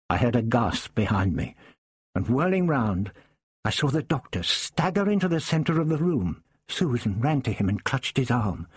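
ordinary talk

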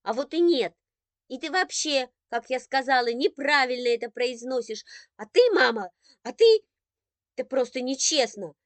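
high, loud indignant protest; girl protesting loudly to mother and brother; tearful outrage. Acted. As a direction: protest it's unfair, almost crying. Sister furious, near tears.

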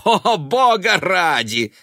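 high, loud, slow scoffing cry; scornful. A narrator's reading. Son scoffing at his mother's talk of saving. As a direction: scoff with disgust. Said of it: "усмехнулся Бен".

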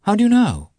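high, loud startled question; alarmed, pitch leaping up; horror-struck. A narrator's reading. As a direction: cry it out in alarm. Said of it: "horror-struck".

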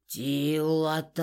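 deep questioning drone of a clay giant; droning golem question. A narrator's reading. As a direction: hum it out like a giant of earth. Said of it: "вопросительно прогудел он".

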